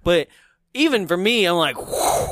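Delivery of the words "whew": airy whistle-like whoosh, no voice; breathy imitated fly-by. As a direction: blow a whoosh of something sailing overhead. Imitates something flying overhead.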